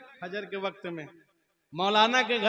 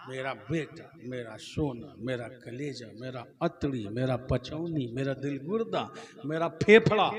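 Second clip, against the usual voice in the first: mock doting father; 5 semitones lower than usual. Preacher mimics a proud new father, doting. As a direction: gush over the baby in a low mock-fond voice.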